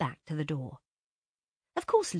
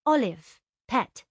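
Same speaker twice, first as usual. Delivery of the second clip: put-on higher girl's voice, helpfully correcting; Laura's voice; 7 semitones higher, 6 dB louder, slower than usual. A narrator's reading. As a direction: gently put her right.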